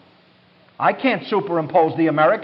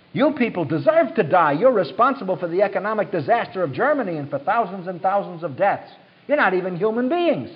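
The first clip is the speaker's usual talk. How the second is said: accusing Nazi tirade, pitch slightly raised; lightly voiced Gestapo chief; 3 semitones higher than usual. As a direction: hammer out each accusation as party line. Acts Gestapo head denouncing a Jew.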